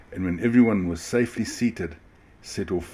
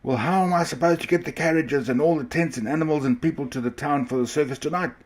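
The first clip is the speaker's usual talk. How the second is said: bellowing; 8 semitones higher than usual. A narrator's reading. Ringmaster bellowing at the frightened driver. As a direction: demand it at the top of his voice. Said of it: "the ringmaster bellowed".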